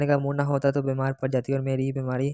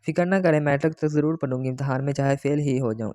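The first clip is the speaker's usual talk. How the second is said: irritated retort. Acted. Girl sulkily answers her fiancé's nagging about studies, mildly irritated. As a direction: snap back, stung and sulky. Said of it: "मैंने जलकर कहा".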